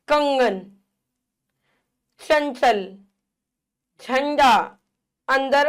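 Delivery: कंगन, चंचल, झंडा, अंदर each with a nasal sound before the consonant; nasal anusvara. Shown as a demonstration. Teacher giving anusvara examples, nasal sound in कंगन, चंचल, झंडा, अंदर. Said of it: "इसका उच्चारण नाक से होता है".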